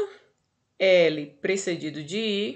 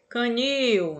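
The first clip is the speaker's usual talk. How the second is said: "Canil" with the last syllable, nil, higher and stronger; stress on final syllable; 4 semitones higher than usual. Shown as a demonstration. Teacher showing the class an oxytone, stressing the end of "Canil". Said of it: "Nil é mais forte".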